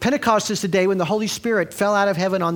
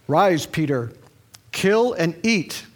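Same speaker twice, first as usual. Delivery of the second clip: voice of God commanding; slower than usual. Acted. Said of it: "his voice said".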